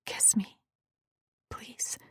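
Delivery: soft whispered plea; whispering. Acted. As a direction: whisper the request. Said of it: "I whispered".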